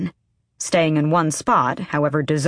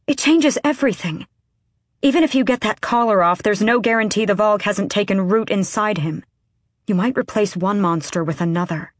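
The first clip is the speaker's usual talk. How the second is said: urgent whisper yelling; 4 semitones higher than usual. Acted. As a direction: argue hard without being overheard. Aylin argues urgently with Kael.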